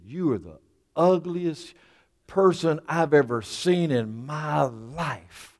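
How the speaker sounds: slow, deliberate mock insult; drawn-out insult. Parrot insulting the customer, slow deliberate put-down. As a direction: stretch out the final words for comic scorn.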